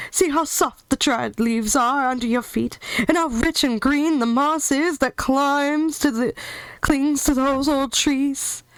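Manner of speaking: lion praising his new home; cheerful lion voice; lion voice, eager. Acted.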